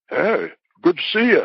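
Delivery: put-on light New Jersey accent greeting. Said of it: "I could do a Jersey accent, but not that good".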